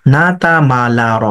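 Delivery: "না তা মা লা র" run together in one breath, long vowels kept; joined-up reading. Shown as a demonstration. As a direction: link the syllables smoothly without pauses. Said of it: "পড়াটাকে split করেন এভাবে". (অক্ষরগুলো একটানা মিলিয়ে পড়া)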